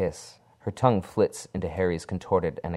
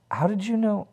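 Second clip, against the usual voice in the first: startled; 3 dB louder than usual. Acted. Harry startled by secret knowledge.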